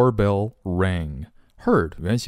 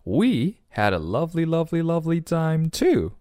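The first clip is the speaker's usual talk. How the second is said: high, sing-song echo; high-pitched storybook gushing; storybook Nellie; 8 semitones higher than usual. Acted. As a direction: gush back in a high character voice. Nellie echoing the parents gushingly.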